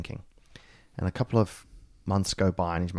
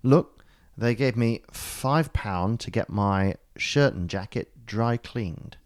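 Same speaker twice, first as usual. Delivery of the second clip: insistent protest; 4 semitones higher than usual. Retold or imitated. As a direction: insist hard, drawn out. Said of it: "He goes".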